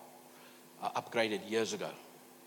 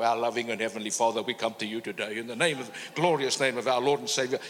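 formal prayer; 7 dB louder than usual. Pretend. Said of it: "you don't have to go".

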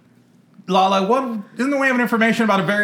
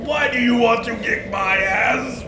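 higher, shouty mock ghost; Robert Frost voice; 7 semitones higher than usual. Ghost poet defending how he talks, high and shouty. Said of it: "Robert Frost".

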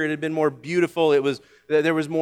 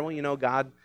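mock sweet comfort; 3 semitones lower, 7 dB quieter than usual. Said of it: "not just something to make you feel better".

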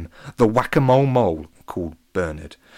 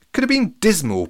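piping up, high and louder; Joe; 11 semitones higher, 5 dB louder than usual. A narrator's reading. Joe offers the crowd another suspect, piping up. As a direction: chip in with a high voice. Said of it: "piped up Joe".

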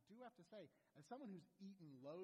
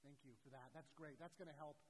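unimpressed wife; 3 semitones lower than usual. Retold or imitated. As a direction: thank them drily, underplayed. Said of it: "My wife gives me this look like".

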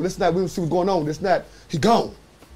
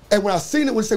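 ordinary talk, nothing marked

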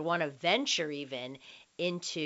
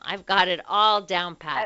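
laughing; 2 semitones higher, 11 dB louder than usual. Real, not acted. Laughing at own long plug.

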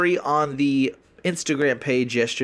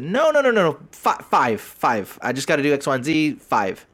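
mock protest. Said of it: "And he said".

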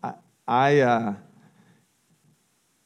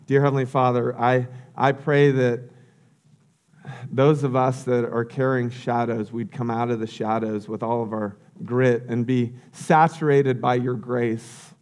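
earnest pastoral prayer, slowing near the end; closing prayer. Acted. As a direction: pastor closing the service in prayer over music. Closing prayer over music.

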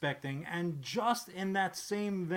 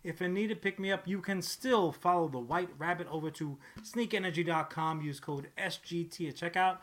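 ad read; faster than usual. Acted. Sponsor ad read.

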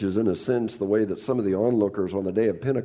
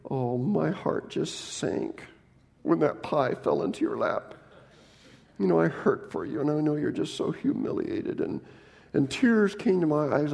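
mock sympathy; 3 semitones higher than usual. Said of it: "Those of you who would say".

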